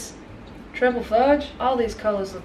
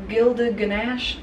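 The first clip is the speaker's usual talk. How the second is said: savouring the name; much slower than usual. Shown as a demonstration.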